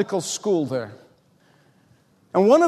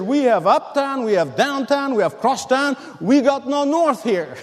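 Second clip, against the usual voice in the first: mock yell; 5 semitones higher than usual. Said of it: "he yelled at me".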